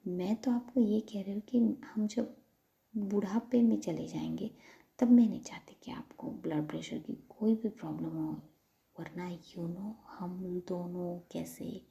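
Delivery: teasing that slows right down at the end. Acted. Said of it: "तो ऐसे टीजिंग वेज में कह रही थी".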